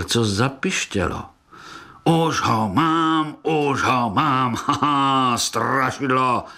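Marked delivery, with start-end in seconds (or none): 2.0-6.4 slow, gloating shout of victory with a laugh; triumphant cry. Acted. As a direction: crow over the catch. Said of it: "vykřikl". (vítězný výkřik s chechtáním)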